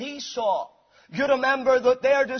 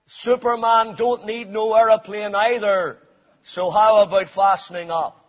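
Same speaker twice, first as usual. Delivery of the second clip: sharp reply; 5 dB louder than usual. Retold or imitated. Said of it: "packed a punch with this sharp reply".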